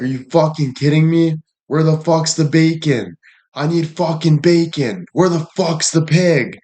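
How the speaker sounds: yelling at the girlfriend over pancakes, mock rage. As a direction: play a man losing it over missing bacon. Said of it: "started yelling at her".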